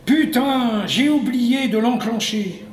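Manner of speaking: the penny drops, cry it out; sudden realization. Acted. Moon dweller realizing he forgot the switch, exasperated surprise.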